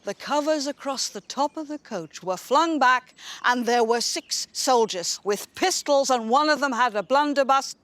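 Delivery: animated tale-telling, building momentum; dramatic storytelling. Acted. Host telling guests a highwayman tale, dramatic storytelling. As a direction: build suspense toward the highwayman's cry.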